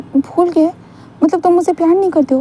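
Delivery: hurt accusation. Retold or imitated. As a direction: sound stung and accusing.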